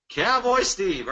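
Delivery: slow, drawn-out Texan cowboy drawl on Cowboy Steve; cowboy accent. Shown as a demonstration. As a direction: stretch out Cowboy Steve like a Texas cowboy. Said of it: "I gotta do that accent".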